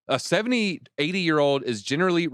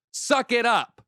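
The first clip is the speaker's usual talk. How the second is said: scolding; 10 semitones higher, 3 dB louder, slower than usual. Real, not acted. Scolding the fund founder.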